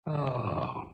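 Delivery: a catch of tears on the word; choked up. Acted. Son on the phone hearing his mother cry, choked up. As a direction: caught off guard, voice catching.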